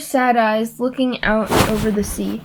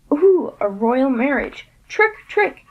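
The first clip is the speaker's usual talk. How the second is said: cackling glee; 2 semitones higher than usual. Acted. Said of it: "he cackled".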